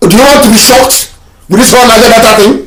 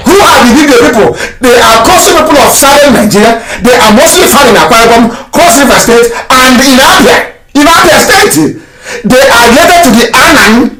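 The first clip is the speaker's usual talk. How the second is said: triumphant; 4 semitones higher than usual. Real, not acted. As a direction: crow over the proof, laughing through it. Triumphant reading, laughing.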